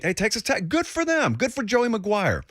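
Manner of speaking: high-pitched, innocent well-wishing; innocent congratulations. Retold or imitated. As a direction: offer harmless congratulations in a lifted voice. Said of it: "So I innocently".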